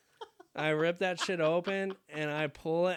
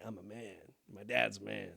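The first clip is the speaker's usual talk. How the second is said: much lower, softer voice; manly boast; 8 semitones lower, 8 dB quieter than usual. Retold or imitated. Boy at Home Depot with dad, low manly boast. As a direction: drop low to sound like a man. Young boy's proud claim, voice dropped.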